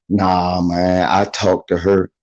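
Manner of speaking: low, subdued mock excuse; dismissive friend. Friend reports back after skipping court, dismissive.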